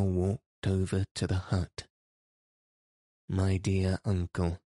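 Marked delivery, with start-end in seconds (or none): 3.3-4.6 a touch of kindness, "My dear uncle" said gently; mild kind plea; kindly. Acted. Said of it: "she asked kindly".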